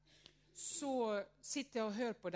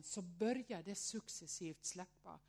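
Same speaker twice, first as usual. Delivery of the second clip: usual speaking voice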